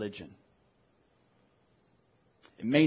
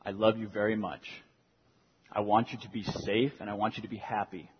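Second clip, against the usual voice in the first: redemptive fatherly talk; 3 semitones lower, 3 dB quieter than usual. Retold or imitated. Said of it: "very direct and redemptive language".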